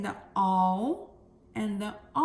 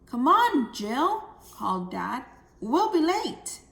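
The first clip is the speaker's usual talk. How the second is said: urging call; 2 semitones higher, 7 dB louder than usual. Shown as a demonstration. Dad urges Jill at the door, loud. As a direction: push her to move, we're late. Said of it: "where I change my voice".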